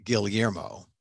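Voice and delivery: Guillermo with the double L sounded as L plus Y, "Gil-yermo"; Filipino double-L Guillermo. Shown as a demonstration. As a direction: say Guillermo with an audible L before the Y. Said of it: "Filipinos say the double L's".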